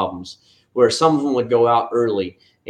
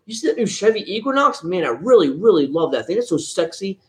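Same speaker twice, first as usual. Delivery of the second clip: much higher, gushing car-fan voice; mocking someone gushing over a family car; mock hyped young guy; 7 semitones higher than usual. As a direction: ham up a single guy drooling over an SUV. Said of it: "is not gonna be like".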